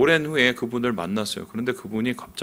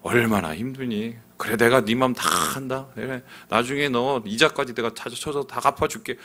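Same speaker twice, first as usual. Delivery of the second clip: comforting God voice. Retold or imitated. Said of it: "이런 거 원하잖아요".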